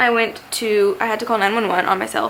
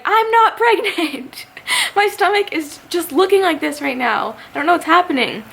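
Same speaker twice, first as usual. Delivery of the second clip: high, mock-outraged retort breaking into a laugh; indignant protest; 8 semitones higher than usual. Patient correcting the EMT's pregnancy guess, mock indignation. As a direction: imitate an exasperated denial, pitched way up.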